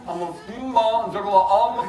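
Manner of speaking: talking through a mouthful; words round a bite of food; mouth full. Real, not acted. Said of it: "I shouldn't speak with my mouth full".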